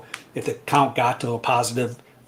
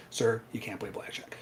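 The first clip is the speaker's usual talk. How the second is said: hushed warning; 7 dB quieter than usual. Retold or imitated. Casino man quietly bans him.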